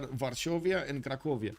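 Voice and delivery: "Varsovia" with a sh, "Cracovia" ending in -via; Romanian pronunciation. Shown as a demonstration. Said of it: "the Romanian pronunciation for these ones".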